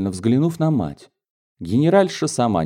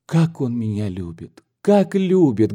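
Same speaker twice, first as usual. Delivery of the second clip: rapturous daughter; 2 semitones higher than usual. Acted.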